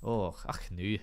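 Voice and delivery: put-on Scottish "ach"; Scottish accent. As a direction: try a little Scottish accent. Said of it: "Do a Scottish accent?".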